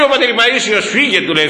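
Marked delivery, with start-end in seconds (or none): 0.9-1.2 sharp shout of go. Retold or imitated. Elder Paisios sending the disabled boy away, raised voice. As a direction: shoo him off with a raised voice.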